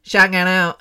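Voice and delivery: quick mock shout-out in slurred street lingo; street slang. Shown as a demonstration. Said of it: "slanged so down to".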